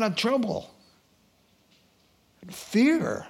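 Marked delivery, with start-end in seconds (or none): 2.5-3.3 very slow, drawn out fear of change; slow emphatic close. Real, not acted. Preacher driving home the lesson, very slow. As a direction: land it slowly and heavily. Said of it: "closing emphasis".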